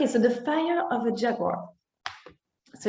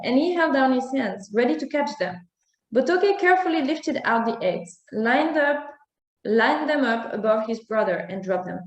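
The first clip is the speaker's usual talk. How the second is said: story narration; 2 semitones higher than usual. A narrator's reading. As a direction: read it like a bedtime tale for children.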